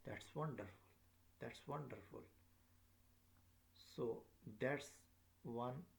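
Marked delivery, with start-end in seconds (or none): 0.0-2.2 "wonderful" falling each time; falling exclamation. Shown as a demonstration. Teacher repeating the exclamation for learners, falling intonation. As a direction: bring the voice down on "wonderful". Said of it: "falling down".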